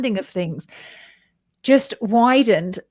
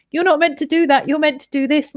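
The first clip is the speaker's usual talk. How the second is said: imitating the woman; 7 semitones higher than usual. Voicing the woman in story.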